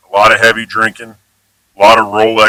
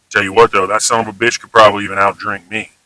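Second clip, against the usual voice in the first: praising example; 3 semitones lower, faster than usual. Shown as a demonstration. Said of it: "Compliment, singing his praises".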